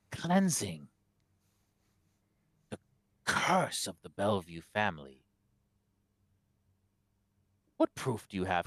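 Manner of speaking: lightly acted cleric, emphatic with long pauses; self-righteous abbot. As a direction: defend your holy work, phrase by phrase. Game master voices the abbot.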